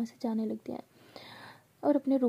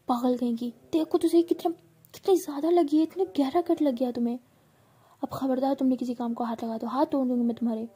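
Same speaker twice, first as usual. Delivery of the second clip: loud, raised scolding of a careless friend; angry scolding; 3 semitones higher, 5 dB louder than usual. Retold or imitated. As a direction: tear into her like a worried elder sister. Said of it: "बहुत ज़्यादा भावना को डांट रही होती है". (ऊँची, ज़ोरदार डांट)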